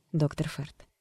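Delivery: plain reading voice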